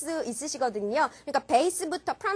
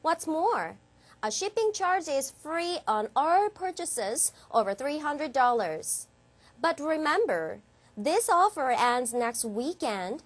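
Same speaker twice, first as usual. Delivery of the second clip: slow, measured English ad read; deliberate ad copy with lifted list items; advertisement read; much slower than usual. Shown as a demonstration. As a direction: model a shop advert for learners. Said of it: "이렇게 읽어주시는 광고문입니다".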